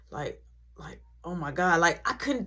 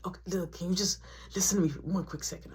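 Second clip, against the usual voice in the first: hurried whisper; 3 semitones lower, 7 dB quieter, faster than usual. Retold or imitated. Urgent phone plea.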